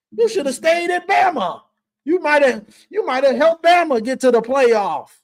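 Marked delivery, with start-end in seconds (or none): 0.1-4.0 shouted jab. Real, not acted. Calling out to Caleb.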